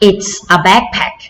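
"It's a backpack" stretched out slowly; teacher slowly models the answer; slow model repeat. Shown as a demonstration. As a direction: drag each word for the class to echo.

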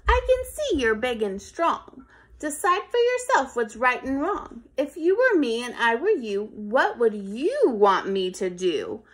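a hint of a calm appealing ant; reasoning ant. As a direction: ask him to think.

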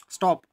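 स्टॉप said alone, then a clear break; pause after stop. Shown as a demonstration. Teacher shows where the comma falls, pause after stop. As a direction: stop dead after stop. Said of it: "मुझे यहाँ पर pause लेना है".

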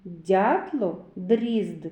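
slow, deliberate reading with pauses between words; verse recitation. Shown as a demonstration. Teacher recites a rhyme for children to count sounds, slow and emphatic. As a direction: set out each word separately so children hear its sounds. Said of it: "полічіть, скільки звуків Д у віршику".

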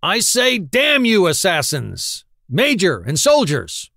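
furious high outburst at the officers; berserk shout. Acted. Quillery goes berserk at the Italian officers, shouting. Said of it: "He shouts".

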